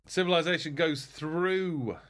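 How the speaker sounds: high, slow drawn-out proclamation; result announcement. Pretend. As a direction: stretch it out like an announcer. Declares the round's result.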